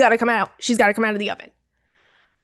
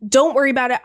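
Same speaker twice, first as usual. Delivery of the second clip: high, urgent mock yell, easing down; high-pitched reenacted shout without full volume; retold screaming; 5 semitones higher than usual. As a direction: imitate hollering through a door to keep someone out. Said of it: "I'm still screaming. I'm going".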